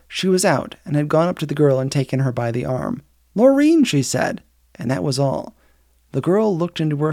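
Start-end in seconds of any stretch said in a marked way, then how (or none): 3.3-3.8 calling out. A narrator's reading. Virginia calls the girl by name.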